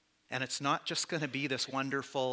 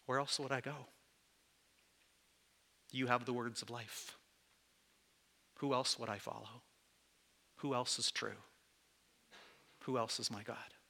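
quiet devotion; 4 dB quieter than usual. Retold or imitated. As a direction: speak it softly in trust. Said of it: "I look back at Jesus and I say".

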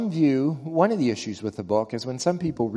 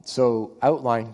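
hoarse, strained voice from a cold; losing voice; 3 dB louder, slower than usual. Real, not acted. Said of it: "I'm losing my voice with this Montgomery cold".

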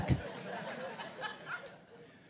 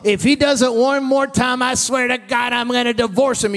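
higher, loud fed-up outburst; mock exasperated spouse; 6 semitones higher, 6 dB louder than usual. Preacher mimics a wife cursing her marriage, exasperated. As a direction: vent like a spouse at the end of their rope.

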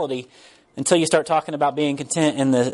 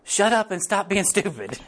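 blunt; 4 semitones higher, 4 dB quieter than usual. Retold or imitated. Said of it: "And he was like".

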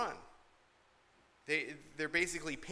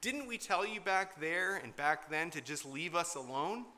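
mock obnoxious complaint; 4 semitones higher than usual. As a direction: sneer it at Moses like a whining crowd. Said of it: "obnoxious sort of comment to Moses".

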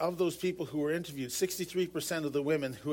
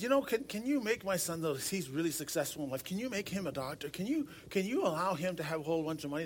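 lightly done mock Italian accent for the mother; a hint of an Italian mamma pleading with Jesus. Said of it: "my apologies for that terrible, uh, Italian accent".

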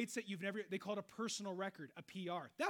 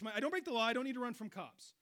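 ordinary talk

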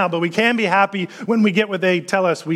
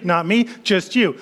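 usual speaking voice

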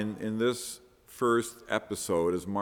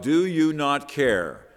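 slow, raised plea with a mild yell; 4 semitones higher, 4 dB louder, slower than usual. Acted. Believers in the midst of storms yell to God, slow mild yell. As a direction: draw it out as a half-yelled cry. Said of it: "we yell out".

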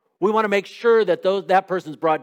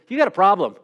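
louder, curt blunt accusation; a hint of a cold accuser; 3 semitones higher, 5 dB louder than usual. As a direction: snap it and walk away. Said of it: "someone comes to you and just says".

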